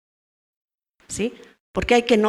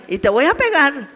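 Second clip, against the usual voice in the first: empty threat; 4 semitones higher than usual. Retold or imitated. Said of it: "Y no les pegaba".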